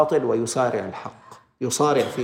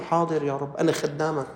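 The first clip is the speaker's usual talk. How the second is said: devout obedience. Retold or imitated. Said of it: "لازم تقول له".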